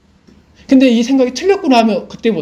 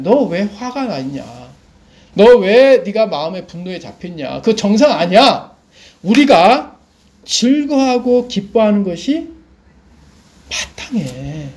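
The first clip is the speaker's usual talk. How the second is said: lightly voiced father, slow, measured rebuke; father setting the standard; slower than usual. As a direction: lay down the rule slowly, as a father would. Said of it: "아버지가 기준을 정해주는 거예요". (기준을 정해주는 아버지처럼 천천히 타이르듯)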